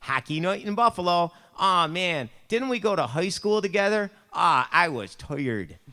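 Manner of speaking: high, loud, hammed-up Buffalo accent. Shown as a demonstration. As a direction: lay on thick Buffalo vowels. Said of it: "That's how we talk in Buffalo".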